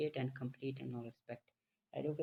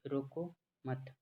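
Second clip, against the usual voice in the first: रोको मत said slowly as one unit, then stop; slow, joined रोको मत, halting after मत; pause after मत; much slower than usual. Shown as a demonstration. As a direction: hold back after मत. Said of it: "मत के बाद पॉज ले लेता हूँ".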